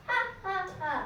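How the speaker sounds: three separate, deliberate ha's; storybook "ha, ha, ha"; mock laugh. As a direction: read out a pretend gloating laugh. Sheru gloats after fooling men.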